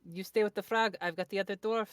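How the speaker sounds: loud call to an ally. Acted. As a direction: shout it across the battlefield. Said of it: "call out".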